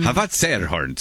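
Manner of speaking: put-on a touch of a Viking accent; light Viking accent. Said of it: "Viking accent".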